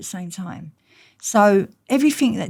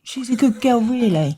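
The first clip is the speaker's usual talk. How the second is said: higher and louder, laughing disbelief on good; mock incredulous; 5 semitones higher, 5 dB louder than usual. She echoes her dad's words in laughing disbelief, higher and louder. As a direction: repeat it as if it's absurd. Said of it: "coming out that dream thinking".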